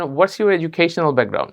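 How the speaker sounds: What's your educational background, spoken slow and even; slow model question. Shown as a demonstration. Teacher reading the common question slowly to the class. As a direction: drill it slowly for learners. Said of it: "তাহলে বলেন".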